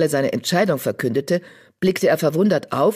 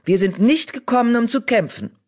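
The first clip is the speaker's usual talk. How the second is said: firm call; 7 semitones higher than usual. Acted. Leader calls out over fight.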